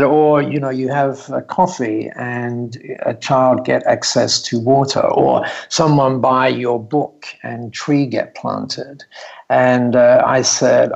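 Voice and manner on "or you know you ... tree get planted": put-on slow, lightly Japanese-accented English. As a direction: gently explain in a Japanese accent. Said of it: "in this lovely Japanese accent".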